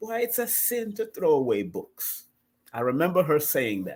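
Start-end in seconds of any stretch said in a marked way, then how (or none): 0.0-2.2 put-on Jamaican accent, pitched up. Quoting a woman's remembered words the way she said them, jamaican accent. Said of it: "just like how her Jamaican accent would say".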